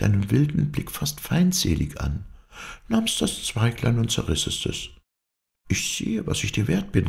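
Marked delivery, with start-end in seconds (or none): 5.7-7.1 high-pitched, understated cry of reproach; bitter outcry. A narrator's reading. Rejected lover tearing up the twig, reproachful outcry. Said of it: "riefst du".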